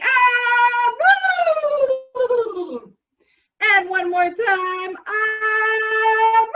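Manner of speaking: loud, peppy countdown cheer; overbright kids party host. Acted. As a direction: pump up the kids loudly.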